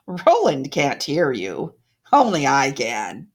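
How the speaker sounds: low, loud, slow witch voice; cruel taunt. Acted. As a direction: gloat down at her, menacing. Odette taunting the ghost.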